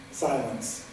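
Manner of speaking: ordinary delivery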